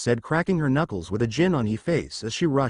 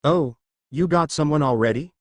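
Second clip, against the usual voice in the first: teasing; 2 semitones higher than usual. Acted. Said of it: "with a teasing grin".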